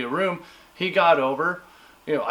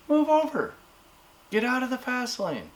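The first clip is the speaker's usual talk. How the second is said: demanding; 7 semitones higher than usual. Real, not acted. Telling slow drivers to move.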